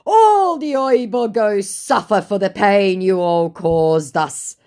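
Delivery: high, loud, slow proclamation; mock aggrieved scammer. Scammer blaming her for past pain, mock aggrieved. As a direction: declaim it like a hammed-up threat.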